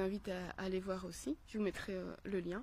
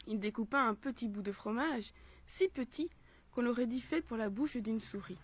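measured, carefully paced storytelling; story narration. A narrator's reading. Mother reading a philosophical tale for children, storytelling voice. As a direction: read the fable aloud phrase by phrase.

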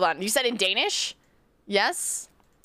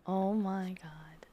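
very slow, hushed whisper; barely voiced, drawn-out disbelief; stunned whisper; 3 semitones lower, 13 dB quieter, much slower than usual. Real, not acted. Stunned by the Danish attempt.

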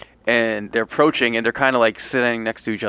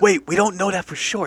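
higher-pitched interjection; mock objection; 7 semitones higher than usual. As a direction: cut in with a raised pitch. Friend interrupts in acted story.

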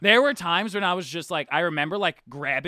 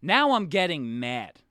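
retold threat; slower than usual. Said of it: "and then he said".

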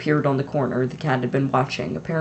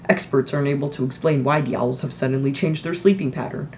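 brisk newsreader delivery; news read. Acted. Newsreader reporting odd owls on TV, broadcast voice.

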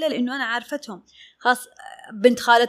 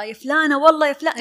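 louder imitated squabble; mock bickering; 3 semitones higher, 5 dB louder than usual. Dressmaker bickering with a longtime client, raised mock-quarrel voice. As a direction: act out calling her out in a friendly quarrel. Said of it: "أنا وهي بنتخاصم".

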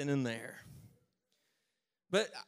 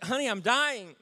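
hammed-up desperate whine, higher and louder; mock dying plea; 6 semitones higher, 7 dB louder than usual. Husband begging his wife over the phone for a ride, hammed-up desperate plea.

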